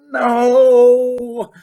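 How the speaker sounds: loud, high wail of dismay; anguished cry. A narrator's reading. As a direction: cry out in despair at the rain. Despair at the rain.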